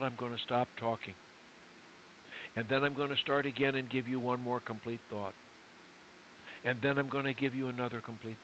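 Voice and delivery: one linked thought, then a full stop after "thought"; one thought at a time. Shown as a demonstration. Coach shows client full stops between thoughts, measured demonstration. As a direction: pause fully after each "thought", even and unhurried. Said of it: "I'm gonna talk to you that way right now".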